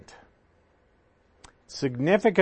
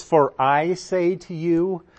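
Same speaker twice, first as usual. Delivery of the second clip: slow, deliberate weight on the word "I"; stress on I; 3 semitones higher than usual. Shown as a demonstration. Preacher reads Jesus' words to show the emphasis, stress on I. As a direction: lean on "I", drawn out slowly. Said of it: "that "I" is emphatic".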